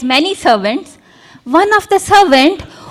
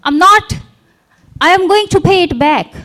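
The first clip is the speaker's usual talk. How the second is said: servant pleading with the king, higher and urgent; desperate begging; 3 semitones higher than usual. Acted. Servant on his knees begging the king for mercy, pleading. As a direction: beg the master not to punish you.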